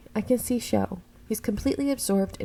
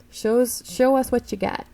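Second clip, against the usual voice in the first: higher, goofy put-on professor; crazy professor voice; 3 semitones higher, 3 dB louder than usual. Professor urging Fujimoto to show magic, crazy put-on voice. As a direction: egg a student on in an odd voice. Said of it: "I don't know what I'm doing with his voice".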